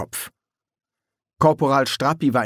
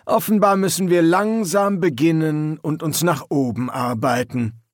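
raised, barking sergeant voice; gruff drill sergeant; 5 semitones higher than usual. A narrator's reading. Sergeant addressing the new recruits, gruff and raised.

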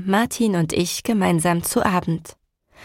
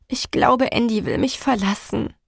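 trembling voice; 3 semitones higher than usual. Acted. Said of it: "mit bebender Stimme".

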